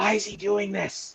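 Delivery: very high, sidelong stage whisper. In a tabletop game, a player's character turns to a companion after an odd bow, half-whispering. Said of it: "do like the the whisper thing".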